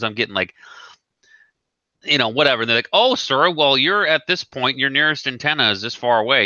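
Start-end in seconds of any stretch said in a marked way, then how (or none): 2.9-6.5 higher-pitched mock customer service voice; lightly mocked support agent; customer service rep. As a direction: imitate an apologetic rep, pitched up. Mimics customer service brushing him off.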